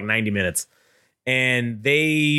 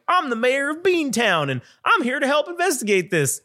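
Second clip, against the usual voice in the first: much higher, pompous mayor voice; mock official; 11 semitones higher than usual. Staff lady arriving as Beantown mayor, high pompous voice. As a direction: play a self-important mayor.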